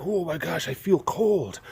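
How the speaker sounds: hushed, shivery mock complaint; acted feeling cold. Someone out in freezing rain, softly acting cold. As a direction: softly act out being chilled. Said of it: "so you're like".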